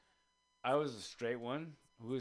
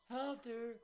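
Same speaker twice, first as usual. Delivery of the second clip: calling out; 7 semitones higher, 6 dB quieter than usual. Retold or imitated. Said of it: "we're going".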